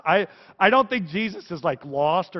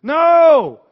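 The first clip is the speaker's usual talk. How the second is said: much higher, much louder shout of no; emphatic no; 11 semitones higher, 15 dB louder than usual. Real, not acted. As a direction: cut the idea off hard. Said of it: "emphatic correction".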